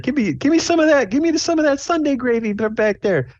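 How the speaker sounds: very high, squeaky order shouted to the kitchen; high character voice. Acted. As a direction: call it to the back way up high. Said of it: "She's like".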